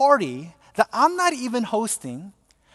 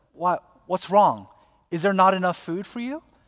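ordinary talk

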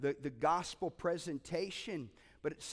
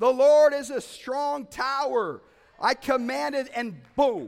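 loud, slow, drawn-out commanding shout; 7 semitones higher, 14 dB louder than usual. Retelling praying aloud on a plane, re-enacting own shouted prayer. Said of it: "I started shouting on this plane".

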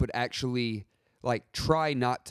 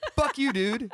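squeaky, very high, blunt swearing; 12 semitones higher than usual. Imitating a friend telling someone off: Rachel impression. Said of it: "That's my Rachel impression".

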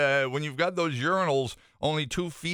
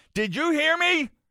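mock screaming, voice shot way up high; 13 semitones higher, 3 dB louder than usual. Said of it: "she then screams".

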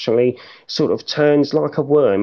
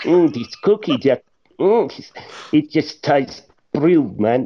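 attempted South African accent. Retrying an accent for the others, a speaker talks in a south african accent. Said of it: "a South African accent".

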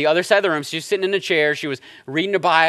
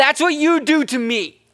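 put-on very high, disrespectful, defensive, snappy tone; 10 semitones higher, 3 dB louder than usual. Retelling snapping back at her, re-enacting a defensive, disrespectful tone. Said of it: "in a defensive, like, very disrespectful tone".

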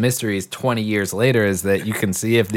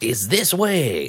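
hammed-up, put-on fake French accent; 2 semitones higher than usual. Describing a film's brownie comic-relief duo, quote one in a fake French accent. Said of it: "they have like fake French accents".

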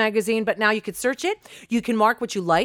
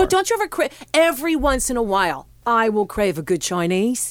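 put-on Australian accent. Talking about chinese food with friends: australian accent. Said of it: "that was your Australian accent?".

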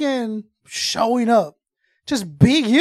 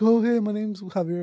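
play-acted anxious, nervous voice; 3 semitones lower, 6 dB quieter than usual. Retelling a contestant introducing himself: imitating a nervous contestant. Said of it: "He's real nervous".

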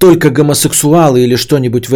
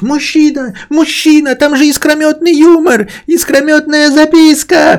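play-acted, very high, drawn-out shout. Retelling how a man shouted after a driver about a note, retelling a shout. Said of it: "тот кричит".

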